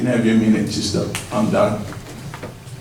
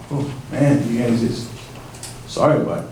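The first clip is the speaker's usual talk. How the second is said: choked up; 2 semitones lower, 4 dB quieter than usual. Real, not acted. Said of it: "sorry, but I'm choking up".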